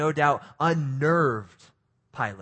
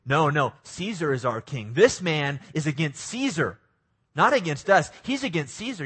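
mock fickle crowd. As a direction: play the crowd switching sides. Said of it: "what do they do?".

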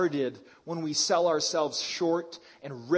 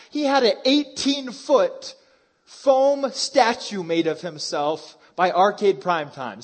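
amazed mockery; 3 semitones higher, 8 dB louder than usual. Real, not acted. Mocking LeBron's statue.

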